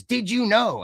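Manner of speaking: lightly voiced trivia announcer; mock announcer. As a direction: read it like a channel bumper. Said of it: "a chyron across the screen that says".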